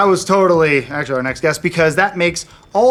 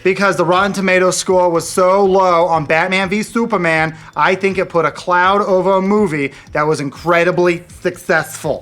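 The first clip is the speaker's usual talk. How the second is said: imitating Brett Ratner; 2 semitones higher than usual. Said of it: "I'll do it again".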